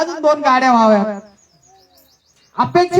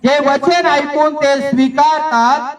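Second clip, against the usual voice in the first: slow verse reading; slower than usual. Real, not acted. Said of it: "reading verse slowly aloud".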